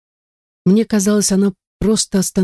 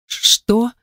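high, stumbling frightened start; scared stammer, pitched higher; stammering in fear; 7 semitones higher than usual. Acted. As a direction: trip over the first sound in terror. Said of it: "Запинаясь и превозмогая ледяной страх".

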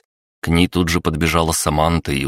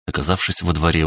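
ordinary delivery

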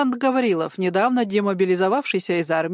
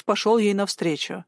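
ordinary delivery, nothing marked

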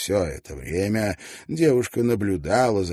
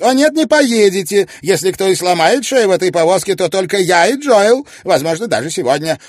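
put-on much higher, louder lively elderly lady; Mrs Wannop voiced; 11 semitones higher, 10 dB louder, faster than usual. Mrs Wannop refusing Tietjens the reins, lively and high. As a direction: playfully put the young man in his place.

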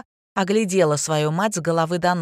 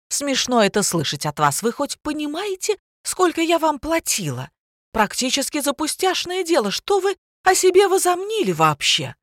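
higher, rising to a shrill peak; haughty outrage; 9 semitones higher than usual. A narrator's reading. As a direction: put her in her place. Дина высокомерно возмущается. (Дина высокомерно отчитывает Лину, возмущённо)

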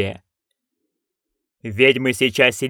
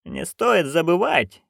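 curt interruption; 4 semitones higher, slower than usual. Acted. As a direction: cut in slowly and coolly. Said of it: "перебила её матушка". (резко перебивая, медленно и тише)

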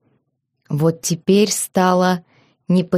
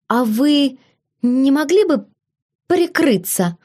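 put-on shy girl's voice; 8 semitones higher than usual. A narrator's reading. Shy girl asks husband to cover.

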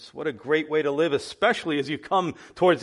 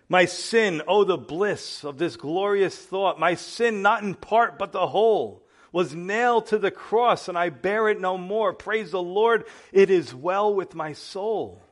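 recited hymn; 4 semitones higher than usual. Acted. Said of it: "like that wonderful old hymn".

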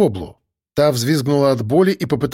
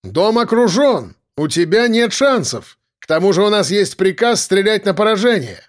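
firm shout; 6 semitones higher than usual. Acted. Narrator negotiating, calling up.

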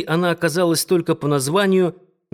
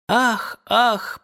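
moaning ah; 9 semitones higher than usual. Acted. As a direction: groan it out high and pained. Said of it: "простонала она".

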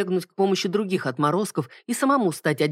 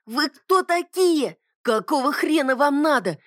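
high, thin, whiny shout; thin nasty yell; 10 semitones higher, slower than usual. A narrator's reading. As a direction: screech it in a thin reedy voice. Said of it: "заорал неожиданно тонким противным голосом".

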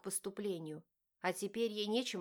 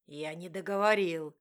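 angry husband; 6 dB louder than usual. A narrator's reading. Husband grabs her arm angrily.

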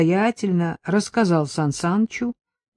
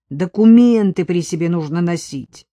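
stern; 5 dB louder than usual. Acted. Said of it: "строго произнёс сержант".

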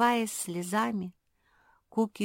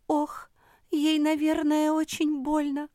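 pitying; 8 semitones higher, 3 dB louder than usual. A narrator's reading. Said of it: "пожалела сестру Куки".

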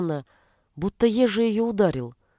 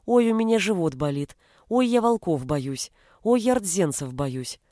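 squeaky mocking mimic. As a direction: drag out the whining to taunt. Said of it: "передразнил он писклявым голосом".

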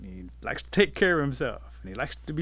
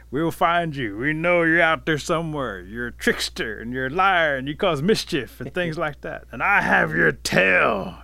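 raised voice calling into the distance; booming proclamation; 4 semitones higher, 7 dB louder than usual. A narrator's reading. Bear calls into woods after fleeing Rabbit, proclaiming loudly. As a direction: declare it publicly, slowing hard on the last phrase.

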